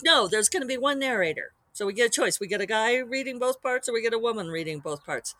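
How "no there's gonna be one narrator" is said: louder, higher mock-firm no; retold blunt refusal. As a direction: put your foot down, half joking. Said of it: "So it's like".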